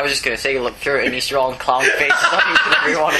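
laughing. Real, not acted. Joking, laughing while speaking.

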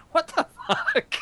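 slow, high, laughing disbelief; baffled what the fuck. Retold or imitated. Friend imitates the confused school announcer, slow and baffled. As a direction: drag it out like a stunned announcer. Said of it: "you could just hear it in their voice".

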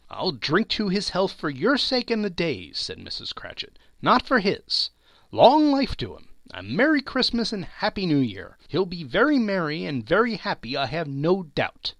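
grudging toast. Acted.

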